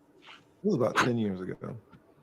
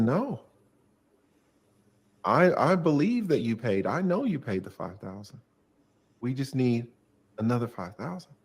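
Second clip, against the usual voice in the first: exasperated insistence; 3 semitones higher than usual. Retold or imitated. Lawyer insisting to client about the retainer, rising insistence. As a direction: push back, getting heated with the client.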